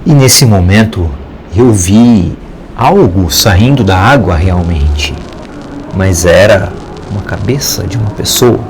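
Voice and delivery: measured storyteller with suspenseful pauses; horror story narration. A narrator's reading. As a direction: tell a scary tale, pausing between phrases.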